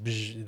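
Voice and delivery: short buzzing noise; imitated spotlight buzz. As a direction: buzz like a light snapping on.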